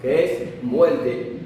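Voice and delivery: que es muerte said very slowly; teacher explaining lomo slowly; slow explanation. Shown as a demonstration. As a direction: stretch out the meaning.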